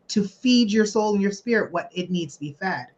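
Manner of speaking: ordinary delivery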